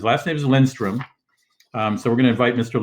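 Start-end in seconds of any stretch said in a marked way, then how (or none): 0.4-1.0 Lindstrom said the English way; Anglicized "Lindstrom", as an English speaker says it; English pronunciation. Shown as a demonstration. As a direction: say Lindstrom as an English name, not as a native would. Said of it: "I'm gonna pronounce it the English way".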